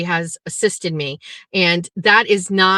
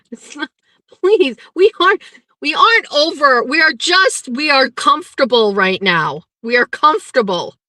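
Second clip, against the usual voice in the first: flustered protest; 6 semitones higher, 3 dB louder than usual. Real, not acted. Defends relationship to chat.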